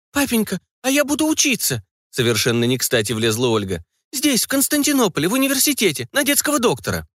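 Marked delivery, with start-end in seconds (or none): 0.1-1.8 put-on high excited girl's announcement; bursting in with her big news; eager blurt. Daughter interrupting the grown-ups, high eager girl. 4.1-7.1 put-on high excited girl's announcement; bursting in with her big news; eager blurt. Daughter interrupting the grown-ups, high eager girl.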